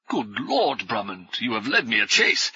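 lightly voiced, out of breath professor; a hint of a puffing scholar; winded old professor. Panting professor catches up.

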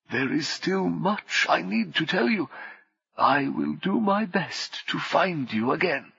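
steady calm then a loud outburst; calm turning angry. Acted. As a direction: start calm, snap into a shout. Sellers calm, then shouts.

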